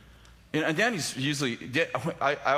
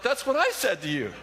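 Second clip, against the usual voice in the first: high, laughing comeback; laughing retort; 9 semitones higher than usual. Retold or imitated. Telling the friend, laughing at the story: laughing retort. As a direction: toss it back through laughter. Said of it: "I'm like".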